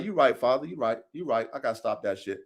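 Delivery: low, soft, chastened son; submissive reply. Acted. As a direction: give in quietly to a scolding father. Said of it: "I love when my God talk to me like that".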